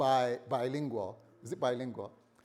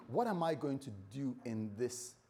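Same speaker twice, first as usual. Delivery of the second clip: troubled inner thought; 3 semitones lower, 6 dB quieter than usual. Acted. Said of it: "he begins to think".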